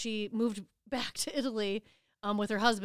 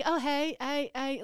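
imitated South African accent, slightly higher; 4 semitones higher, slower than usual. Trying to show how a South African friend talks, South African accent. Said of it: "she talks ... it's a South African".

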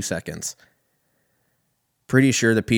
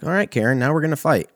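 mock fighting words; 7 semitones higher, faster than usual. Fed up, ready to fight.

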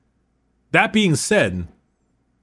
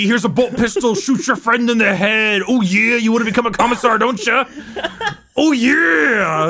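higher, hammed-up wrestler shout; wrestling promo voice; 4 semitones higher than usual. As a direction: sell it like a ring promo. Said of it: "wrestling promo".

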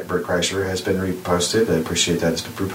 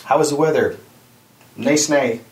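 higher, louder Jersey shore accent, "Nice, nay" for nice day; Benny Jersey accent; 5 semitones higher, 3 dB louder than usual. Shown as a demonstration. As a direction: sound like a Benny. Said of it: "this is how it's pronounced".

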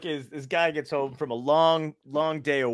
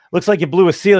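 mechanic's call; 6 semitones higher, 11 dB louder than usual. Retold or imitated. Mechanic delivers the diagnosis.

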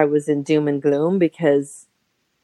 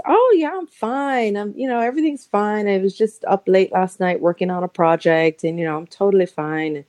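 higher, bright covering-up voice; fake fine; 4 semitones higher than usual. Brushing off a concerned friend with forced brightness. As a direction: put on a cheerful front. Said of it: "And I was".

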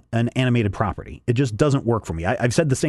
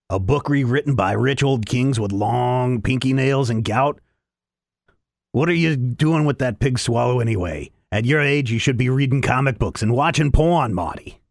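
lightly voiced gravelly Rick; a hint of a gravelly cranky old genius; Rick impression. Host showing his Rick impression to co-host, mild gravelly voice. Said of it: "here's my Rick impression".

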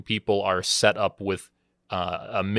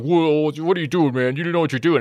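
higher mock yell at a bystander; pitched-up mock yell of outrage; retold yelling; 7 semitones higher than usual. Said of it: "this guy starts yelling at me".

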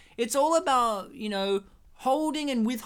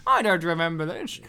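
Sean Connery; 4 semitones lower than usual. Acted. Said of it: "the real Sean Connery is actually Sean Connery".

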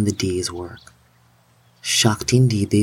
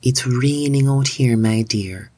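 put-on old woman voice; 4 semitones higher than usual. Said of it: "said her voice through the door".

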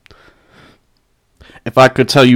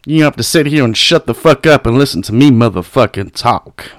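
whisper; 3 semitones lower than usual. Real, not acted. Taunting haters listening.

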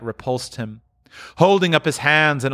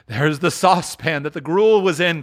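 higher, eager exclamation; excited cry; 4 semitones higher, 4 dB louder than usual. Acted. Scrooge frisking round his room, excited cry. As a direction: cry out in delighted recognition. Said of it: "cried Scrooge".

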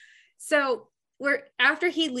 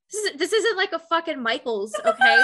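exasperated snap; 5 semitones higher, 4 dB louder than usual. Retold or imitated. Snapping at a demanding customer.

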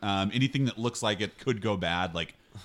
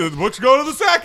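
yelling; 12 dB louder, faster than usual. Acted. Kevin yelling out to the room.

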